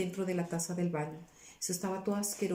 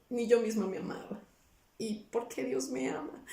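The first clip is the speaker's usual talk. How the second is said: tearful wonder; 4 semitones higher than usual. Retold or imitated. Weeping in wonder at God's love.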